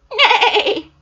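mock seahorse neigh. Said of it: "do they go".

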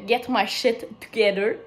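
English with a Quebec French accent. Real, not acted. Vlogger drops an English saying into her French, Quebec French accent. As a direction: say the English through a Québécois accent. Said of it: "avec mon super accent anglais".

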